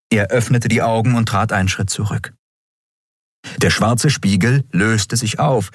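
plain reading voice

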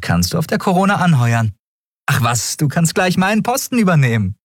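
enjoying the joke; teasing captain. Acted. Captain teasing Miko about the fight, playful.

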